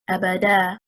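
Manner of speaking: abada said a-ba-DA, last syllable stressed; stress on third syllable. Shown as a demonstration. Teacher showing last-syllable stress on abada. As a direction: lean on DA in abada. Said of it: "If we stress on the third harakah".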